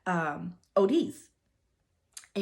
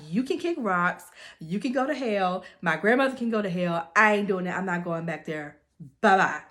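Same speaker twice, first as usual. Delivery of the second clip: telling him off; 4 dB louder than usual. Retold or imitated. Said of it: "she gave him the business".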